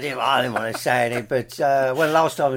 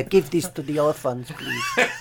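put-on Jamaican accent; slower than usual. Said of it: "In the Jamaican accent".

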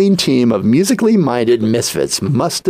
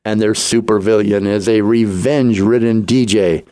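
movie trailer voice. Acted. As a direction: announce it like an epic film trailer. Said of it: "I'm gonna do this in my best movie, movie voice".

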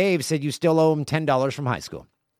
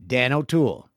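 evil voice. Acted. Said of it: "in an evil voice".

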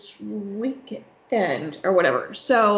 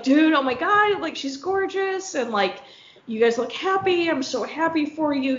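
gushing excitement; 4 semitones higher than usual. Retold or imitated. Gushing over girlfriend photos.

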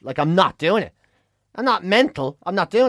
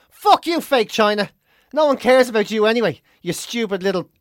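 mock tirade; 2 semitones higher than usual. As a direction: pretend to tell off a whole country. Mock tirade against Hong Kong.

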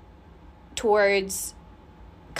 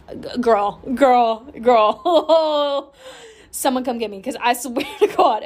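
laughing; 4 dB louder, slower than usual. Real, not acted. Cracks herself up.

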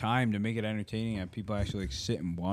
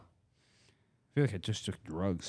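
giggly; 2 semitones lower, 4 dB quieter, much slower than usual. Real, not acted. Giddy after voice effects.

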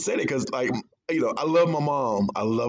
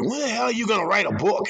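put-on Boston-New York accent; 9 semitones higher, faster than usual. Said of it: "in that indomitable Todd Boston by way of New York accent".

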